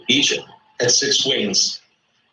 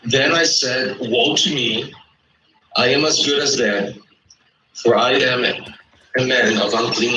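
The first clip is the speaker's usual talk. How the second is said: slower, letting each phrase sink in; read slowly; 4 semitones lower than usual. Shown as a demonstration. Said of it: "Read verse five again slowly so it can sink in".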